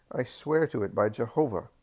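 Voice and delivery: outraged denial of perjury; indignant landowner. A narrator's reading. Doris protests being called perjurer.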